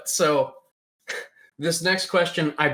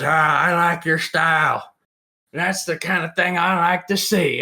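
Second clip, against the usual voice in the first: lightly voiced approving character; 5 semitones higher than usual. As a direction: imitate Jake's approval, slightly hammed-up. Jake approving, acted.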